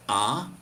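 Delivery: "ah." as a pure open ah; open ah vowel. Shown as a demonstration. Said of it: "you would spell it A H".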